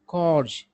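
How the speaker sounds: "कॉर्ज" ending in a voiced Z-like sound; plural pronunciation. Shown as a demonstration. Teacher giving the plural of corps, "कॉर्ज" with a voiced ending. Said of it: "तो plural उच्चारण होगा".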